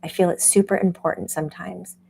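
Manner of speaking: lightly voiced self-quote; a mild mock of the speaker herself; imitating herself. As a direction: play back your own earnest agreement. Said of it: "Jamie's like".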